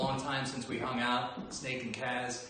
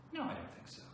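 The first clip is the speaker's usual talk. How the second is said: whispered; 7 dB quieter, faster than usual. Real, not acted. Whispered aside.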